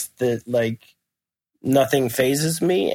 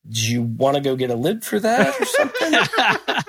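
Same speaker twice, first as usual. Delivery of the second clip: rising, incredulous retold question; mock anxious suggestion; 4 semitones higher than usual. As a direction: pitch climbing high toward the end. Imitates man fretting over coffee lid.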